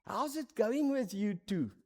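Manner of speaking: slow, drawn-out concerned question; a senior leader gently checking in, lightly voiced; slow caring mentor. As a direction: mentor on the stoep asking the couple, slowly and kindly. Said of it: "And he asks us".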